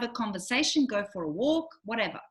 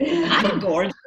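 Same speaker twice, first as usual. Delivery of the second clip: proud declaration; 5 dB louder, slower than usual. Real, not acted. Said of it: "declares herself gorgeous".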